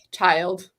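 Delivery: amused half-laughing scolding; laughing at a brave but silly kid. Retold or imitated. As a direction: chuckle through a fond telling-off. Retold reply to brave boy.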